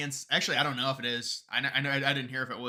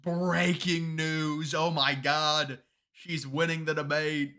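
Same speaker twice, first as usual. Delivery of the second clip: mock breaking news; 2 semitones higher, much slower than usual. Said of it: "breaking reports just like".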